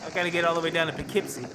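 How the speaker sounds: loud lost driver rambling; loud, rambling trucker bit; put-on driver voice. Voicing the garbage truck driver.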